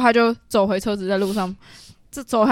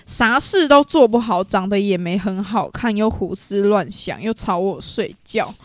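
mock annoyance, drawn out item by item; retold annoyance; slower than usual. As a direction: list the complaints slowly, imitating a fed-up friend. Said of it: "他整个就很不爽".

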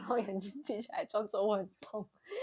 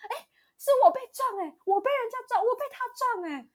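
high, loud, wronged protest; aggrieved auntie; 13 semitones higher, 6 dB louder than usual. Retold or imitated. Imitating the auntie protesting she was the victim, high and aggrieved. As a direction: play the hurt victim insisting. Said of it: "她就很生气地说".

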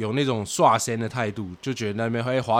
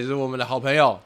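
usual speaking voice

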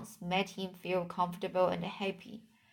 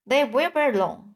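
a sharp, raised rebuke; spoken sharply; 5 semitones higher, 4 dB louder than usual. Acted. Spider scolds the rat for teasing, sharply. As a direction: snap at him to back off. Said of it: "she spoke sharply".

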